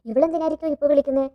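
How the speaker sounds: muttering half-annoyed at the caller; mild mock annoyance. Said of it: "എന്നുള്ള രീതിയിൽ ദേഷ്യപ്പെട്ടിട്ട്". (ചെറിയ ദേഷ്യത്തോടെ)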